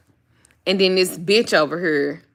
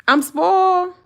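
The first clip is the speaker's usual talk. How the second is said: voicing the dog; 10 semitones higher, 5 dB louder, slower than usual.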